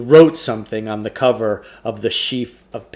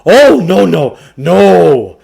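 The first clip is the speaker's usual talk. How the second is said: higher, louder salesman's patter; Samuel Klugarsh voice; 6 semitones higher, 12 dB louder, much slower than usual. Acted. Shopkeeper pushing a trade-in on the boys, higher, louder salesman voice. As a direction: sell it like an oily bookshop owner.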